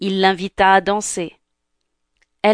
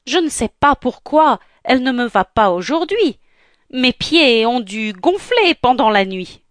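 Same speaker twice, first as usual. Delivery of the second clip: raised-pitch stepsister justification; whiny excuse; 4 semitones higher than usual. Acted. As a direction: make excuses for the bad fit. Younger sister makes excuses for fit. (excuse geignarde)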